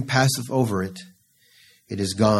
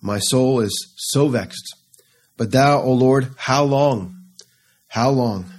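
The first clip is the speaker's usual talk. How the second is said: mild pleading lament; 2 semitones higher, slower than usual. Acted. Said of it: "David cries out".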